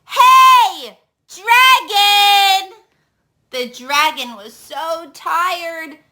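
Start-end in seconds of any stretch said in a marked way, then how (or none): 0.1-2.8 loud, high yell; shouted. Acted. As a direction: shout right into his ear. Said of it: "She shouted this time, as loud as she could".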